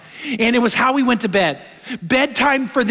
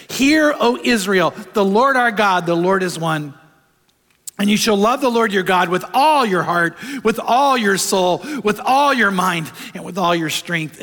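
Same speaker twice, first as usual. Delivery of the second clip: solemn scripture recital. Acted. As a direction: proclaim each line as sacred. Reciting the Shema in sermon.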